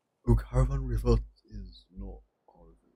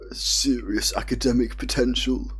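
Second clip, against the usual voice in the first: mock American accent; 3 semitones higher than usual. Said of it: "saying that in a very American-like way".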